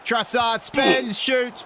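rising shout as he shoots; fired-up play-by-play; excited commentary. Real, not acted. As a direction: call the shot like a commentator. Live commentary of a shot.

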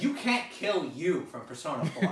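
cracking up mid-sentence; laughing. Real, not acted. Laughing at own joke.

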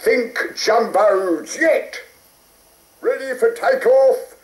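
lightly voiced RAF pilot; a hint of a brisk flight instructor. A narrator's reading.

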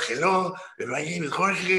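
put-on a nervous seventeen-year-old's hello; shy, hopeful introduction; timid teen greeting. Meek teen introducing himself.

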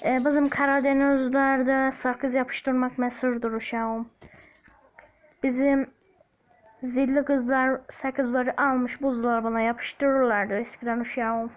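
put-on light Black Sea Laz accent, slow and drawn out; telling an old story in a mild Laz accent. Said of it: "Laz gibi konuşmaya çalışıyorum". (hafif Laz ağzıyla, yavaş)

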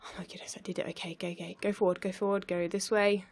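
hushed, breathless urging to herself; whispered excitement. Real, not acted. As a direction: whisper it so as not to jinx it. Whispering while concentrating on the game.

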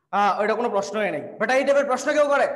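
a teacher half-jokingly scolding a student for a silly question; mock exasperation. Real, not acted. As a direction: pretend outrage at a silly question.

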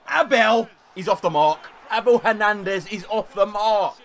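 high, loud, laughing celebration. Real, not acted. Gamer celebrating his striker's first goal, loud laughing cheer.

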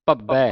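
ਭੱਬੈ with a held double b; doubled consonant. Shown as a demonstration. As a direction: press the middle b of ਭੱਬੈ. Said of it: "ਅਧਿਕ ਲਾ ਕੇ".

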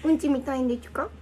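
put-on baby talk.

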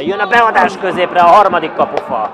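building loud call to the post; excited commentary. Acted. Cross hits the post. (izgatott, felfokozott kommentár)

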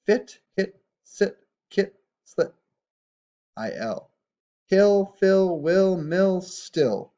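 loud read-along. Shown as a demonstration. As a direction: call the words out big for the class. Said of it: "Try and say these with me".

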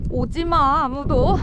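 loud warning call. Real, not acted. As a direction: shout them away. Calling out to animals.

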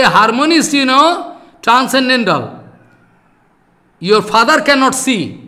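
loud, indignant scolding; heated rebuke. Real, not acted. Preacher rebukes a translator who edits Prabhupada, loud and indignant. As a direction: tear into him for his arrogance.

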